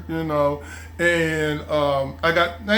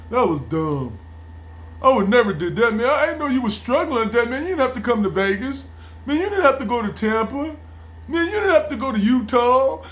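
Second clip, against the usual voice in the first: mock sympathy; 3 semitones higher than usual. Mocking fake sympathy.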